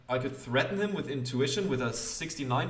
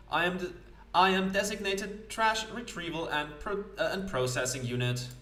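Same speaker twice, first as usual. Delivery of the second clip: lightly voiced higher-pitched automaton; 6 semitones higher than usual. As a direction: announce your function like a machine, lightly put on. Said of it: "exactly what sort of automaton is this".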